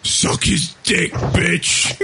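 lightly put-on, drawn-out voice; Kieran. Host imitating co-host as background ambience, lightly put-on voice. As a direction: slowly imitate a co-host's crude line. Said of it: "just have Kieran going".

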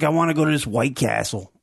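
put-on half-hearted Boston accent; imitating a friend's Boston accent, badly; attempted Boston accent. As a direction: try a Boston accent and not quite manage it. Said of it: "I'm trying to do a Boston accent".

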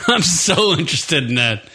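laughing sarcastic. Acted. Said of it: "I am totally interested".

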